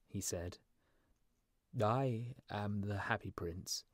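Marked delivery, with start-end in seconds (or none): 1.8-3.8 slow, measured prince; sorrowful statue prince. Acted. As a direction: draw it out with quiet dignity. Statue prince introduces himself sadly.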